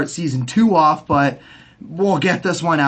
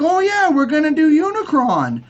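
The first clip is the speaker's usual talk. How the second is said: mock announcement; 9 semitones higher than usual. Mocking the studio announcement.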